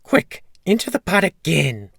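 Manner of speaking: high, loud, frightened order; scared, urgent wife. A narrator's reading. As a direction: hurry him into hiding in a high voice. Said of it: "The giant's wife was terribly scared".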